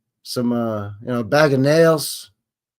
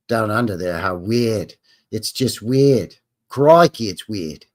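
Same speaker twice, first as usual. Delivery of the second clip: badly faked Australian accent; terrible Australian accent; 4 semitones lower than usual. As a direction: put on a hammy Aussie accent. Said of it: "That's a terrible accent".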